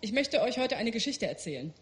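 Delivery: ordinary delivery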